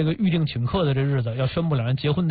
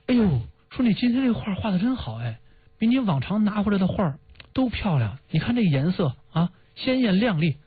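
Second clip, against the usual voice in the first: higher-pitched imitated praise; lightly voiced admiring mother; 6 semitones higher than usual. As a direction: lightly play a mother praising her child's drawing. Mother admiring child's drawing, acted.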